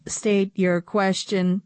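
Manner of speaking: flat computery commanding voice; robot voice. Acted. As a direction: bark it out like a machine. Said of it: "in a computery voice".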